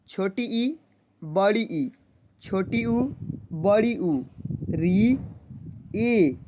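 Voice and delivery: each vowel said slowly and separately; reciting the vowels. Shown as a demonstration. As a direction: read the vowel letters out one by one, clearly. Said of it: "तो देखिए". (स्वर एक-एक करके साफ़ बोलना)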